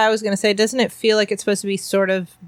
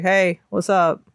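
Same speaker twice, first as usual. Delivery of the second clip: put-on chill kid voice; slower than usual. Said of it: "He was like".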